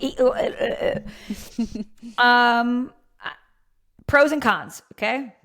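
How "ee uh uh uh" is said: halting, higher stuttered vowel noises; mock stuttering. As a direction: stammer out broken sounds, searching for words. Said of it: "I'm just stuttering a lot".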